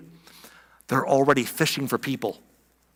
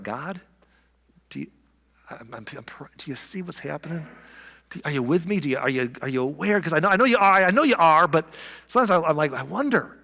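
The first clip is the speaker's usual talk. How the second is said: hushed imagined prayer. Retold or imitated. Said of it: "where you're like".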